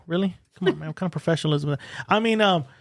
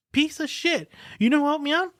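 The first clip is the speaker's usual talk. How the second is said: indignant outburst; 9 semitones higher than usual. Retold or imitated. Cursing at the unhelpful cop.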